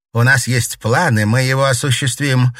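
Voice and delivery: loud, defiant and firm; stubborn. Acted. Daughter refusing her mother's plea, stubborn. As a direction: dig your heels in. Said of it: "упрямо сказала Дельфина".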